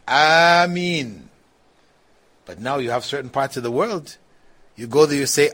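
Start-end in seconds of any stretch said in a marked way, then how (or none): 0.1-1.3 long, sustained congregational Ameen; wall-shaking Ameen. Shown as a demonstration. Teacher imitating worshippers' Ameen shaking the mosque, drawn-out. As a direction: draw Ameen out in full voice. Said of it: "the masjid's wall shaking with".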